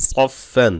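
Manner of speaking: সফ ফ্যান with a thick, full সা; heavy sad. Shown as a demonstration. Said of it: "সা মোটা করতে হবে". (সফ ফ্যান মোটা করে পড়া)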